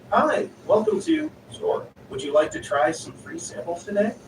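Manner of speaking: oversell the welcome like a cheery clerk; over-enthusiastic customer service. Retold or imitated. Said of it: "in my very over-enthusiastic customer service voice".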